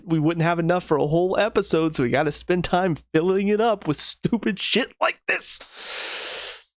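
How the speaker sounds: lightly voiced smug writer, slowing at the end; a hint of a sarcastic writers' voice; mock writer excuse. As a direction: parody the writers defending filler. Mocking the show's writers.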